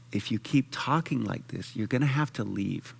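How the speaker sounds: calm firm warning. Retold or imitated. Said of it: "as nicely as I could, but very clear and direct".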